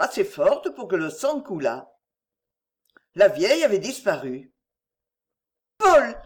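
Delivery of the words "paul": loud, high cry of alarm. A narrator's reading. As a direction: call his name out in alarm. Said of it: "s'écria Clémence".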